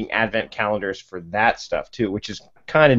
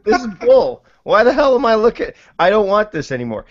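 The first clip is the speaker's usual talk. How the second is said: fed up; 10 semitones higher, 4 dB louder than usual. Retold or imitated. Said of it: "I was like".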